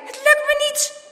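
high, loud wail of panic; frantic shouted despair; desperate yell. A narrator's reading. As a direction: cry out helplessly. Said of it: "gilt hij".

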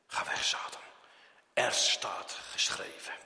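hushed whisper telling Satan to go; whispered rebuke. Acted. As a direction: breathe the words, firm but barely voiced. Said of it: "wat zegt dan de christen".

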